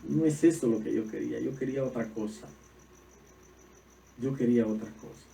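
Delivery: mild whiny complaint; a touch of a sulky prayer; complaining to God. Retold or imitated. Believers complaining to God, mildly whiny. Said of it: "le decimos a Dios".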